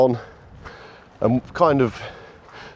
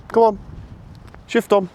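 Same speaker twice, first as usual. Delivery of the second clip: barking commands; 11 semitones higher than usual. Real, not acted. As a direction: bark the command out to get him moving. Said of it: "as I'm barking verbals".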